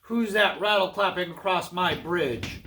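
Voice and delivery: lightly voiced troll demand; grumbling troll. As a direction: challenge the goat with mild menace. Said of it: "grumbled the hungry troll".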